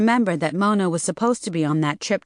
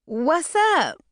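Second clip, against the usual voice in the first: scared squeak; 10 semitones higher than usual. A narrator's reading. Mona in same scared voice.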